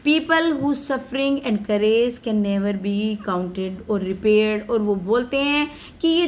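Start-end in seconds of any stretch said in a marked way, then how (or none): 0.0-4.7 slow, careful read of a speech text; slow reading aloud. Acted. Teacher reading Mandela's speech to students, slow and careful. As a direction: read each English word slowly for the class.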